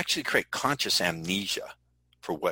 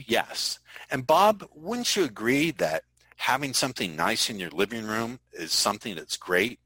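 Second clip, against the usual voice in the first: mock salesman. Shown as a demonstration. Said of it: "The tag questions".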